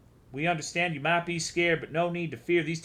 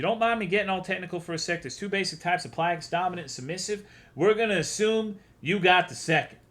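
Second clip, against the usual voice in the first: higher-pitched know-it-all character voice; a touch of technical patter, pitched up; lightly voiced explainer; 5 semitones higher than usual. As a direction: explain it briskly in a raised, put-on voice. Voices a game figure explaining.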